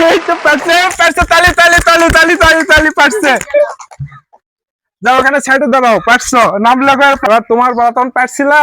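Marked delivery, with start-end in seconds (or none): 0.1-3.3 higher, lively call to clap; excited cheering. Real, not acted. Teacher cheers a child's success and calls for applause, excited. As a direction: celebrate the win, rally the room.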